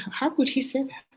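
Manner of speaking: indignant disbelief. Retold or imitated. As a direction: ask it shocked. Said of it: "and I said".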